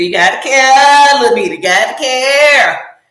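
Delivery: insistent, wailing reproach in play; self-scolding plea. Acted. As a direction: stretch out CARE like nagging yourself. Acts out scolding herself to care.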